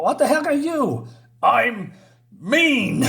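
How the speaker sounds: squeaky high creature; a high creature voice announcing itself. Acted. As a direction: pitch it way up like a small creature.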